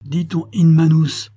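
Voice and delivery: lightly disguised, loud threat. A narrator's reading. Lord threatens the lady while hiding his identity, disguised loud voice. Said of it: "qui déguisait soigneusement sa voix".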